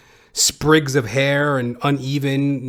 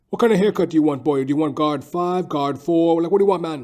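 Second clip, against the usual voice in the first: heated barber; 4 semitones higher, faster than usual. Retold or imitated. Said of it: "he was getting a little heated".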